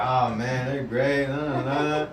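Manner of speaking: lively, bright, sing-song; gushing about new love. Retold or imitated. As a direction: gush like you're in love. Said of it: "You're like".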